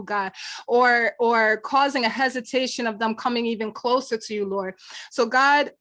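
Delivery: earnest closing prayer, steady. Acted. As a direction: pray it earnestly to God.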